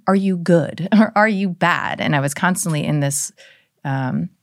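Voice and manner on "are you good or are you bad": mock suspicious question. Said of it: "trying to say".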